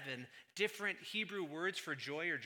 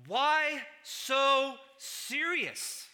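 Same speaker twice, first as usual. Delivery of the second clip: mock villain line; 9 semitones higher, 9 dB louder, much slower than usual. Movie line joke to audience.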